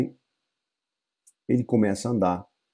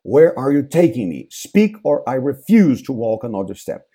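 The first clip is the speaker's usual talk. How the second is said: demanding Hamlet; 3 semitones higher, 7 dB louder than usual. Acted. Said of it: "ele para e fala".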